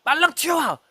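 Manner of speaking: high mock yell at the junior; retold yell. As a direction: shout him over, a bit lighter. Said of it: "막 제가 소리 질렀어요".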